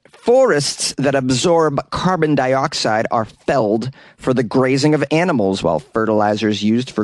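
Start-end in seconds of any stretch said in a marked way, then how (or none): 0.1-5.6 measured second take; careful retake. Shown as a demonstration. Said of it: "Take two".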